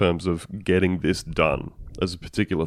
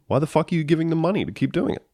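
exasperated; 10 semitones higher, faster than usual. Real, not acted. Outraged rant.

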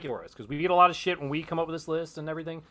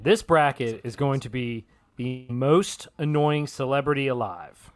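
dramatic reveal; 3 semitones lower, slower than usual. Shown as a demonstration. Announcing the new bracket to cohosts, dramatic reveal. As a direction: unveil it like a big reveal. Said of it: "let it sit for a minute".

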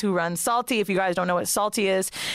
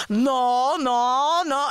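mock distraught wife; 4 semitones higher, much slower than usual. Wife reacting in shock, crying.

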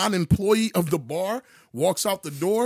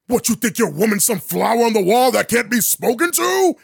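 mock super villain; 3 semitones higher, 5 dB louder than usual. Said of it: "he sounded like a super villain".

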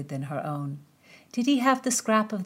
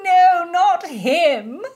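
high character voice; 12 dB louder, much slower than usual. A narrator's reading. Laughing cry in reply.

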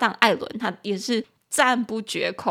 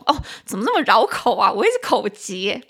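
tongue-tied exasperation; 5 dB louder than usual. Real, not acted.

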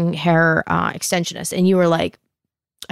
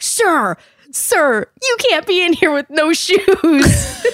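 higher-pitched mock butler, laughing through it; imitating a butler; 9 semitones higher, slower than usual. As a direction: play the flustered hotel butler, voice pushed way up. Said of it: "starts running towards him and is like".

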